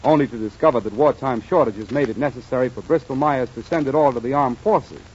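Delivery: smooth announcer sponsor pitch; ad read. Acted. Announcer pitching Vitalis to listeners, ad read. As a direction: sell it to the radio listeners.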